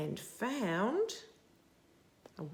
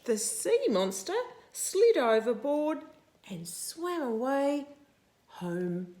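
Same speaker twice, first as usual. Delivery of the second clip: higher, louder climax; excited storytelling; 7 semitones higher, 4 dB louder than usual. A narrator's reading. Reading to a child, excitedly describing the monster leaving. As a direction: tell it with a thrill.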